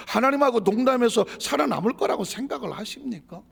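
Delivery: loud, high rhetorical question; forceful preaching. Real, not acted. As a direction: challenge the congregation hard.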